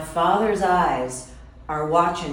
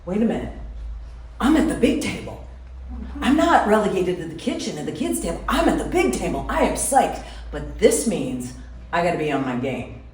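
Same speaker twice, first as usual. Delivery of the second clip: excited inner thought; faster than usual. Retold or imitated. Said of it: "and I realize".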